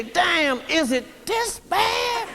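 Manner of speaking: rising high with a laugh; laughing disbelief. Retold or imitated. Newcomer at his first lecture, laughing high disbelief.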